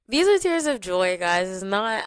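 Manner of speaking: pushing the words out through real tears; tearful joy, voice breaking high; crying happy tears. Real, not acted. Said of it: "I'm crying".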